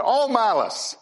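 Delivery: "All" lifted and leaned on; zealous stress on all. Shown as a demonstration. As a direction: relish the word "All". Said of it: "I like Peter's zeal in there".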